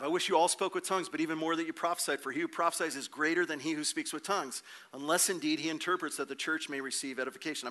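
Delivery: hurried verse reading, words run together; fast, joking read-through; rapid reading. Real, not acted. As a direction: race through the scripture without pausing. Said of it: "I'm trying to speak really fast".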